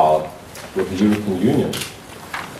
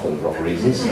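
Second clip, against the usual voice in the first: laughing; 3 semitones lower than usual. Real, not acted. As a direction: chuckle through the punchline. Repeats punchline with laugh.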